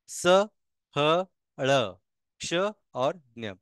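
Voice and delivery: consonant drill, each sound on its own; letter-by-letter recitation. Shown as a demonstration. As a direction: recite the alphabet in separated syllables for learners. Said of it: "इनको एक बार repeat करते हैं".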